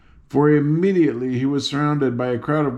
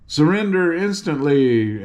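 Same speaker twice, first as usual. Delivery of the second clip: stern demand; 4 semitones higher than usual. Acted. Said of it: "frowning as terribly as her pretty face".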